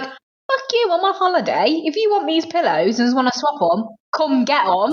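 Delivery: high-pitched, playful outrage; mock indignant. Hotel guest snapping back at a prank caller, mock indignant. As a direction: act out an indignant refusal.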